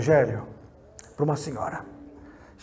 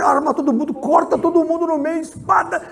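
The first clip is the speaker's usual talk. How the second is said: much higher and louder battle order; booming war command; 13 semitones higher, 9 dB louder than usual. Retold or imitated. Jehovah ordering Saul to spare no one, shouting. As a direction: roar it like a war god giving orders.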